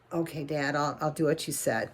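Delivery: reluctant. Acted. Boy reluctantly obeys again.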